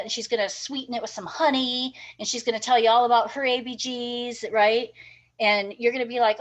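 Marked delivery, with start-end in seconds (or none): 0.0-4.4 lightly imitated Southern twang; Southern accent. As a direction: put on a hint of a sweet Southern accent. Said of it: "that's got the Southern accent".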